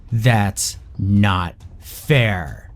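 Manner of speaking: put-on slow, drawn-out child protest; sulky child. Daughter refused by her father, slow sulky protest. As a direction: sulk it out like a furious little girl.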